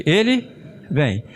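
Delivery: drawn-out, slow ele vem; slow demo. Shown as a demonstration. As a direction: stretch "Ele vem." out slowly, stressing "ele". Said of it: "Como é que fica esse ele?". (dito devagar, como exemplo para a turma)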